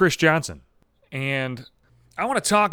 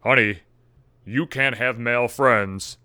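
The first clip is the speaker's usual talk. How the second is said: possessive husband; slower than usual. Retold or imitated. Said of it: "possessive assholes that's like".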